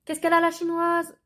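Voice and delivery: high, mocking caricature of an Asian accent, called out; mocking fake Asian accent. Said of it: "qui me criaient".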